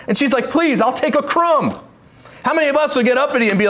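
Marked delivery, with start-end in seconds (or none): 0.5-1.8 higher, drawn-out begging; desperate plea. Retold or imitated. Gentile woman begs the teacher for a crumb, desperate plea. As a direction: plead slowly in a raised voice. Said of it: "she was desperate".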